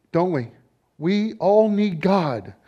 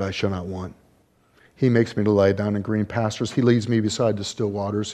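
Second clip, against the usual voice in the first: lower, gentle reciting of the psalm; scripture recitation; 3 semitones lower than usual. Acted. Preacher reciting the shepherd psalm to congregation, gentle recitation.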